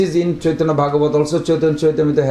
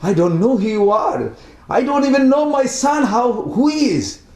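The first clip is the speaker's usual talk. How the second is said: mild retold crying; 7 semitones higher than usual. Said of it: "and he's crying".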